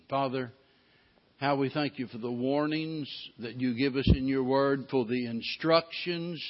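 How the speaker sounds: earnest prayer to God, steady and unhurried; a pastor leading the church in prayer; closing prayer. Acted. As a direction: pray it on behalf of the congregation.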